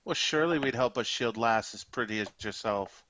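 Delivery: flattering orc with a light Scottish burr; horrible Scottish accent. Acted. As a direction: flirt in a put-on Scottish accent. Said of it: "Competing with my horrible Scottish accent".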